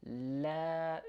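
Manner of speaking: la with a front a as in cat; a long, thin "la"; la, held and kept light. Shown as a demonstration. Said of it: "it sounds light".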